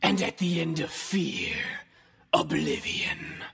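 tinny radio voice with echo; like over an old radio; radio effect. Shown as a demonstration. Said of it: "there is a radio effect on that".

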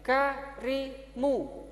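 lightly voiced teacher to pupil; teacher drilling pupil. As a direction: coax and repeat with the child. Teacher drills child garimu.

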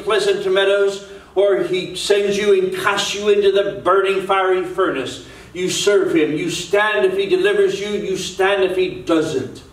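preaching exhortation. Real, not acted. Preacher urging the congregation to stand and serve God, exhorting.

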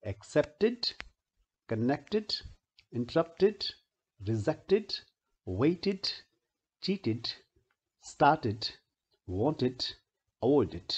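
word list from "एक्सेप्टेड" to "अवॉइडेड", each ending "id". Shown as a demonstration. Teacher reads practice words for students, endings pronounced "id". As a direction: read each word separately, sounding -ed as an extra syllable "id". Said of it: "इनमें भी ईडी से पहले ट या ड की sound है".

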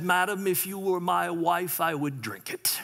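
a hint of a dry British Churchill, trailing into a whisper; British accent. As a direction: deliver the comeback slow, British, fading to a whisper. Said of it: "How's my accent".

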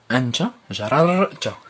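أنت جررت said slowly and loudly, both ر separate; teacher drilling the conjugation of جررت. Shown as a demonstration. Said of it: "لاحظ جيدًا".

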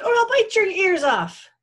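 high, loud screaming threat; screamed threat. A narrator's reading. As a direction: scream a wild warning at the fox. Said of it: "the bone screamed".

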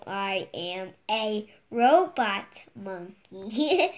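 loud, word-by-word silly declaration; emphatic reading aloud. Acted. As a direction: announce it loudly, one word at a time. Child reads silly line out emphatically.

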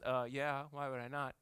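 put-on sassy kid answer. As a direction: shrug it off. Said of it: "the right sassy answer".

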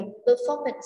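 "performance" stressed on FOR; stress on second syllable. Shown as a demonstration. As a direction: lean on FOR in "performance". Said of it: "trọng âm số hai". (nhấn âm hai của "performance")

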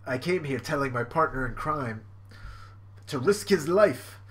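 slightly put-on, deliberate character voice; measured lines in a lightly acted gentleman's role; half-successful theatrical impersonation; Brook. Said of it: "Brook impersonation".

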